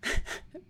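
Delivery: short breathy laugh; real chuckle. Real, not acted. Reader settling back into the story, chuckling. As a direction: let a last little laugh out.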